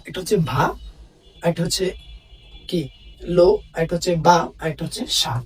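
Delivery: "ভা", "লো", "বা", "সা" each set apart by pauses; teacher spacing out "ভা", "লো", "বা", "সা" one at a time; syllable by syllable. Shown as a demonstration. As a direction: break the word into four beats, "ভা", "লো", "বা", "সা". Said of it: "আমরা কি উচ্চারণ করতে পারি".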